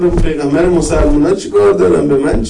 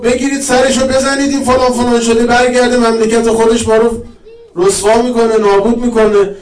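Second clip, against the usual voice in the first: Yazid ordering execution; 5 semitones higher than usual. Retold or imitated. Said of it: "یزید گفت".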